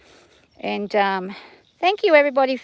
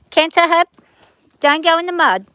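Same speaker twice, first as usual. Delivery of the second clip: higher, louder rider's call; called command; 6 semitones higher, 5 dB louder than usual. Real, not acted. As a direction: call out across the arena. Calling commands to her horse.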